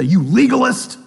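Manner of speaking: mild mock accusation; meaner. Strong believer insulting the weak, mildly mean. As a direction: spit the label out, a bit mean. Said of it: "very much meaner and say".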